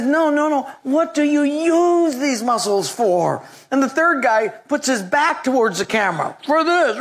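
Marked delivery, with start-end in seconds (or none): 0.0-3.4 higher, drawn-out questioning; lightly voiced talk-show host; mock host again. Donahue asks the third guy. 6.4-7.0 high, punchy boast; hammed-up muscle man; proud bodybuilder. Third bodybuilder flexes his back.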